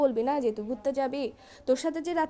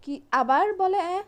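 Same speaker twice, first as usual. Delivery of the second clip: exasperated, loud and slow; 5 semitones higher, 5 dB louder, slower than usual. Acted. Girlfriend exasperated at feigned mishearing.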